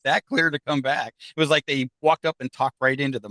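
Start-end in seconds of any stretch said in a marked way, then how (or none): 0.0-1.1 high, startled oh my God that settles back down; stunned oh my God. Retold or imitated. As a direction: retell the shock of hearing the answer. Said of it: "And I'm like".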